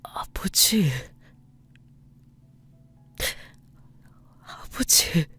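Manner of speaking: choked, barely voiced call for father; tearful. A narrator's reading. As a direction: call softly through tears, breath giving out. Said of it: "쉴 새 없이 눈물을 흘렸습니다". (울먹이며 숨죽여 부르는 목소리)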